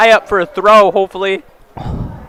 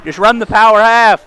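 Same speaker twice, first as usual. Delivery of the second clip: insistent; 5 semitones higher, 7 dB louder than usual. Real, not acted. Insisting on coaching advice.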